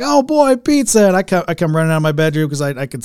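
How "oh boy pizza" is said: put-on much higher, louder little-kid squeal of joy; a child thrilled at the smell of pizza; excited kid. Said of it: "I got so excited because I was like".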